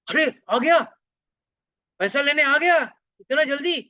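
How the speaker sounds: ऊँची, तेज़ आवाज़ में चौंकना; घबराया आश्चर्य. Acted. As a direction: exclaim in high, loud dismay. कंजूस पांडा के आने पर चौंका. (चौंककर, घबराई ऊँची आवाज़ में)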